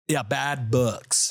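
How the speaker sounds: slow, drawn-out Irish accent; slow Irish brogue on bad books. Shown as a demonstration. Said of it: "Irish might be my worst accent".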